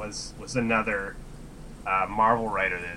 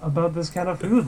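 much higher, incredulous and fed up; retelling a rant at a cafe customer, pitched up; mock exasperated rant; 8 semitones higher, 5 dB louder than usual. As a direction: scoff at the customer's absurd order. His own cafe rant retold.

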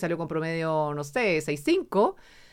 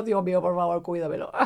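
quiet prayer. Retold or imitated. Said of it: "Y yo".

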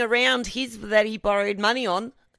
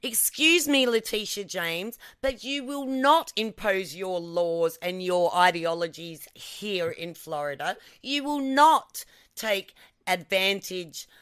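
mock official statement; slower than usual. Mock address to a rival governor.

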